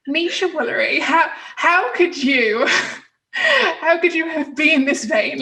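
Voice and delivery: drawn-out, laughing reproach; mock self-scolding. Host telling herself off for re-recording, mock-scolding through laughter. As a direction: scold yourself in amused disbelief.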